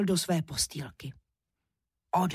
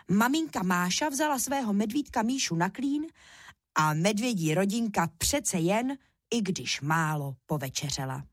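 ordinary delivery

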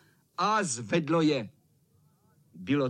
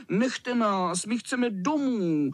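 higher pleading whine; mild mock crying; crying children; 6 semitones higher, slower than usual. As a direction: plead tearfully, stretching the last words. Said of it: "plakali kluci".

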